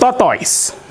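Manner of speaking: herhaal tortoise hoger met Igbo klank; Igbo word for tortoise. Shown as a demonstration. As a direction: zeg tortoise nadrukkelijk in het Igbo. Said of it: "I'll say it in our typical Igbo language".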